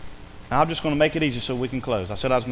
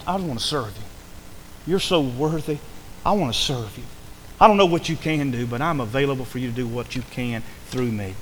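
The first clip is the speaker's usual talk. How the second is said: low, tender devotion; earnest prayer; 3 semitones lower, 3 dB quieter than usual. Acted. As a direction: pray it gently, offering yourself. Voicing a surrendered prayer to God.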